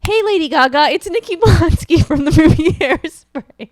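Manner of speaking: loud, high chirpy introduction; Nikki Blonsky impression. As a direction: announce yourself like an eager starlet. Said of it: "she says".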